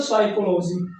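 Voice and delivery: साइकोलॉजी said as "saikolozi", the ch as a k sound; teacher models साइकोलॉजी with a k, not ch; correct pronunciation. Shown as a demonstration. Teacher showing the class the right sound, k not ch. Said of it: "सीएच को यहाँ पर आप क्या पढ़ते हैं".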